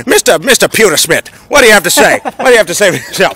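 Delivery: put-on Yankee accent. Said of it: "talking like a goddamn Yankee".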